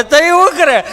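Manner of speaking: put-on loud, cracked wail of a crying boy; loud hoarse schoolboy bawl. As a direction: howl it like a big boy crying. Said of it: "ગૌઠી પાડી જેવો અવાજ".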